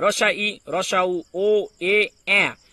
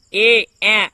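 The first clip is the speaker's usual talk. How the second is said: loud prompt; 8 dB louder than usual. Real, not acted. Teacher prompting class answer.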